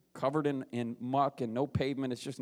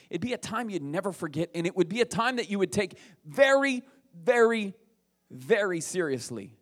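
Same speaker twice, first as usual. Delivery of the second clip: "very" repeated rising louder then dropping; building stress on very; 5 semitones higher, 5 dB louder than usual. Acted. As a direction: climb on each "very". Building emphasis on very.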